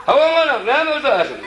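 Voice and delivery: high excited squeal of a voiced figure; mock exclamation. A villager teasing the others, in a high mock squeal. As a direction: shriek it half laughing.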